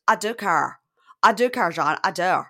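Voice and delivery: imitating Lacey. Lacey pleading with John that she cares, mock voice. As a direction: mimic her begging him, a touch overdone. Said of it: "Impression is so accurate".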